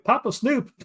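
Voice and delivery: high-pitched imitation of a grandchild; grandson calling out. Grandson interrupting grandpa mid-movie, high imitated voice. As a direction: pipe up high, mimicking a grandson. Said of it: "my grandson in the middle of the movie is like".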